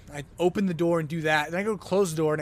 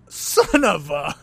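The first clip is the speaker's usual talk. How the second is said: put-on Tommy Boy; 6 dB louder, much slower than usual. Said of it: "went real Tommy Boy".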